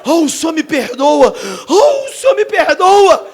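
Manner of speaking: slow, loud hammed-up crying; begging driver, hammed-up sob; mock wailing plea. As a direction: beg forgiveness in a fake wail. Taxi driver begging forgiveness.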